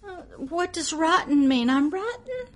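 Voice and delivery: put-on confused little boy. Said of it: "he's kinda looking like".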